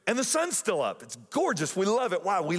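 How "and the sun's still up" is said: raised, singsong delight at the late sun; playfully amazed, a bit higher; retelling their surprise at the sunset; mock amazement. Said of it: "we're like".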